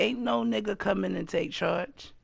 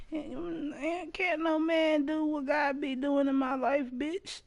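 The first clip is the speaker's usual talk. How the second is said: emphatic outburst; 9 semitones higher, 4 dB quieter than usual. Real, not acted. Preaching God provides, no man.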